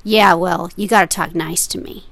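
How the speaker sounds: insistent mock seller voice; gruff retold demand. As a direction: lean on him like a cranky seller. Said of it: "he just kept saying the phrase".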